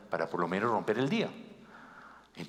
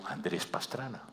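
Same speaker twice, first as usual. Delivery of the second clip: quiet name; 6 dB quieter, slower than usual. Retold or imitated. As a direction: mumble "Andrés Pastrana" without weight. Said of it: "me dice el policía, "¿Quién?".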